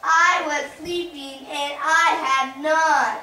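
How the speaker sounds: loud, indignant bear complaint; grumpy bear. Acted. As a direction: bellow it like a grumpy woken bear. Bear whining about missing out.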